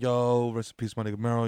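low, subdued send-off; mock eulogy. Friends mourning him after hypothermia, mock eulogy. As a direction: softly pay mock last respects.

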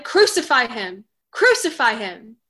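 loud demanding shout; crowd shout. Acted. Chief priests shouting at Pilate, loud mob shout. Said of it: "they shouted".

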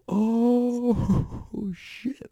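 high excited "Oh" breaking into a laughing "shit"; American reaction. Retold or imitated. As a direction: react like a rowdy American fan. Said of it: "Like the American version".

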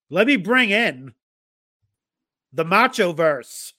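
slow, drawn-out guest build-up; ring announcer introduction. Acted. Host bringing in his guest, ring announcer style. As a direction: announce it in spaced-out phrases, stretching the key words.

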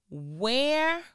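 a breathy whispered where; whispered word. Real, not acted. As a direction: lean in and whisper it. Whispered question.

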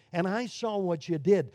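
patient, kind tone on "I saw what you did"; gentle father. Acted. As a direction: say it kindly, no threat. Gentle father in first scene.

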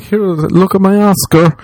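high, drawn-out mock boast; excited showing off. Oscar winner showing off to a supposed friend, high excited imitation.

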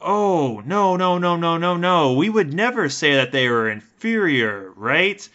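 high, loud, slow patronizing denial; Afrikaner apologist voice. Retold or imitated. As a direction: play a smug old-school Afrikaner insisting he's not racist. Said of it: "you'd have these Dutch people that are like".

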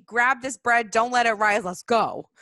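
rally everyone to leave now; urgent Moses. Retold or imitated. Moses hurrying the Israelites out, loud and urgent. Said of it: "Moses is like".

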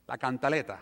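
cantaleta said the Spanish way, can-ta-LE-ta; la cantaleta pronounced in Spanish; Spanish word. Shown as a demonstration. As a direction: give cantaleta its Spanish vowels, stress on LE. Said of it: "The nagging".

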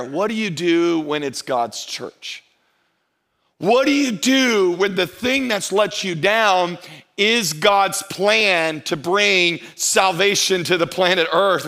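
slow, solemn preacher's questions; slow preaching. Acted. Pastor asking his congregation about church hurt, slow and solemn. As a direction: lay each question down slowly. Turns to the sermon point.

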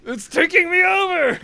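high, loud, giggly exclamation; cackling at his own voice taking over; half laughing, half squealing. Real, not acted. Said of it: "losing control of the accent".

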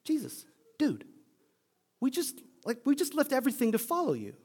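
half-whispered disbelief rising to protest; exasperated Peter. Acted. Peter confronting Jesus about his dark talk, high exasperated pleading. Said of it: "You can imagine".

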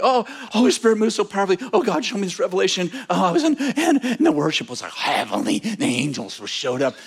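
mock the breathless rave about a service; gushing churchgoers. Churchgoers telling you about the worship, mock gushing. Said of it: "everyone's telling you".

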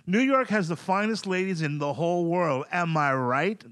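cheesy stand-up crowd work; milk the crowd like a club comic; comic pandering. Shown as a demonstration. Comic showing his co-host how to pander to the crowd, cheesy stand-up delivery. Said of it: "I'll do it for you".

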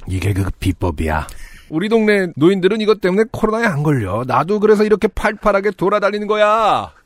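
lightly voiced old grandpa; very old man. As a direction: play the eager old man. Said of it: "미친 할아버지 연기를 잘해줬으면". (들뜬 할아버지 목소리)

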